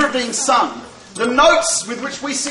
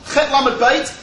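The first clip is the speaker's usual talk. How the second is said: slowly spelled letters; slower than usual. Shown as a demonstration. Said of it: "when the Torah says".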